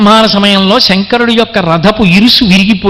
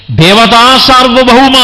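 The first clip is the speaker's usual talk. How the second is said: raised, drawn-out hail; acclamation of praise; 4 semitones higher, slower than usual. Retold or imitated. All the gods hailing their sovereign, drawn-out acclamation. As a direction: slowly proclaim the title in praise. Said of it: "అని అందరూ కీర్తించారు".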